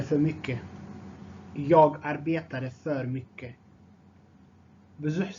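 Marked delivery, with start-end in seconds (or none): 1.7-3.5 measured, carefully separated words. Shown as a demonstration. Teacher repeats phrase more slowly.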